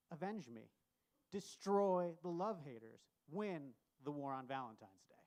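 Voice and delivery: hammed-up martyr's last words; loud, melodramatic farewell speech; overacted death scene. Grenade pin, final message.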